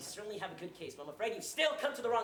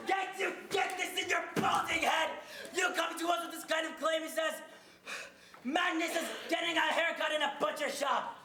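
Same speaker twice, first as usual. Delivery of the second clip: angry ranting; 2 semitones higher than usual. Acted. Exasperated banker raging at the petitioner, shouting. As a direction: bellow it at her.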